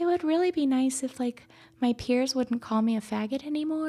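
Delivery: cutest tiny, very high little voice. Retelling what a young student said, the speaker uses a cute little voice. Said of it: "in like the cutest little voice".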